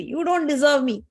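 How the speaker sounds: slow, acted-out scornful rejection; angry Saraswati. Saraswati spurning her husband, angry. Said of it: "Saraswati is so angry".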